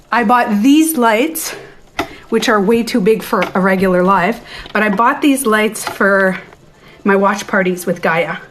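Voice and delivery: breathless after walking around; talking while winded; out of breath. Real, not acted. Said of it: "see how I'm out of breath?".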